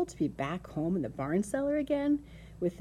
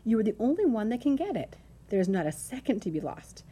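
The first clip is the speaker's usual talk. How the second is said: urgent pleading; 3 semitones higher than usual. Acted. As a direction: press the case, mounting to desperate pleas. Wilbur desperately begs Templeton for help.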